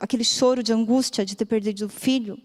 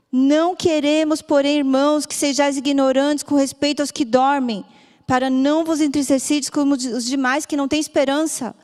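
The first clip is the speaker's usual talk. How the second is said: raised reading voice; 3 semitones higher than usual. Retold or imitated. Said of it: "Eu tive que gritar".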